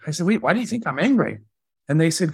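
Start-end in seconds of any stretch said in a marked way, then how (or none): 0.3-1.4 retold bafflement. Boss baffled at being called angry.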